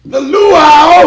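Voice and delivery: high, loud drawn-out shout; radio hype call. Acted. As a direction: belt the name like a hype man. Hyping the event name on air.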